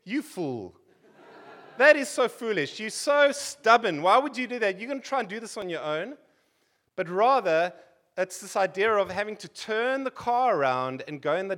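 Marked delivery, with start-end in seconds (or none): 0.0-6.2 louder mock scolding of a stubborn fool; imagined listener scolding the stubborn driver. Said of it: "You would think".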